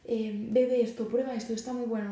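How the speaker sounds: a hint of a friend pressing you at a party; coaxing friend. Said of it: "un amigo tuyo te viene y te dice".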